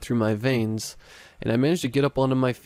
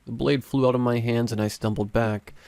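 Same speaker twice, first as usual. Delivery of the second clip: ordinary delivery, nothing marked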